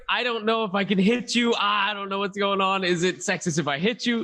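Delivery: lightly acted, high-pitched dithering; flustered movie quote. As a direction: play at being torn mid-fight. Acts out Deadpool's flustered fight line.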